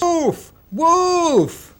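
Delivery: high yelled false alarm; loud cry of wolf. A narrator's reading. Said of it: "shouted again in his loudest voice".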